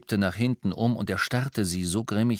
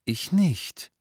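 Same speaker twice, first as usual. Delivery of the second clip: measured, higher-pitched contradiction; slow; 7 semitones higher, 3 dB louder than usual. A narrator's reading. Harry contradicting Lupin about what his father wanted, slowly. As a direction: set the refusal down slowly. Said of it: "sagte Harry langsam".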